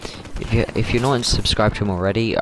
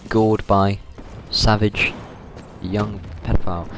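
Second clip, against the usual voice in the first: mock news headline. Mocking a TV news headline about the fight. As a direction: read each word out like a grim headline. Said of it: "See that shit on the news".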